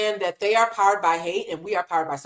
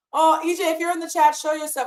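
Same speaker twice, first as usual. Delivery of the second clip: excited call; 8 semitones higher than usual. Real, not acted. Calling out to EJ.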